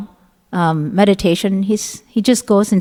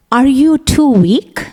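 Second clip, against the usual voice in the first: slow, mocking sneer with raised voice; king mocking a servant, slow sarcastic sneer; 4 semitones higher, 4 dB louder, slower than usual. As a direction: taunt him, drawn out and scornful. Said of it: "very sarcastic manner".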